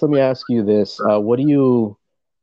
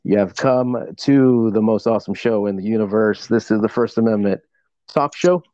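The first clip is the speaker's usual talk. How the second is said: ringmaster. Acted. Host opens show like ringmaster.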